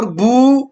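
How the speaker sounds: "بو" with the "oo" lengthened; drawn-out vowel. Shown as a demonstration. Teacher recapping the waw sound, "بو" drawn out. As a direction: hold the vowel in "بو". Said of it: "اس کو کھینچ کر پڑھتے ہیں".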